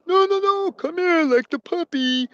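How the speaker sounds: high, urgent oaf voice; frantic simpleton. Acted. Simpleton hushing the girl like the puppy, frantic. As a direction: coax her in a panic, high and oafish.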